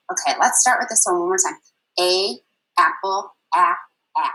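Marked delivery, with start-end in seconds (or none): 2.0-4.3 "a, apple, a, a" with the short a as in apple, drawn out slowly; short a sound. Shown as a demonstration. Teacher drilling the short A sound with flashcards. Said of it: "saying the letter name, the picture name ... short sound".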